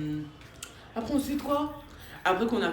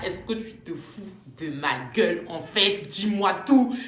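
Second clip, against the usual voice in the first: annoyed accusation; slower than usual. Retold or imitated. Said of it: "ça m'a trop énervé".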